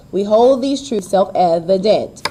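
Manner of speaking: HOLD, TRUTHS and EVIDENT's first and last syllables stressed; brisk iambic beat, weight on HOLD and TRUTHS. Shown as a demonstration. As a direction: bounce light-strong through "We hold these truths self-evident". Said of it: "unstressed, stressed".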